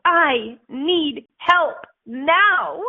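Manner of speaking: loud, very slow, drawn-out call for help; mock plea for help. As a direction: stretch each word as a desperate plea. Voicing someone asking for help.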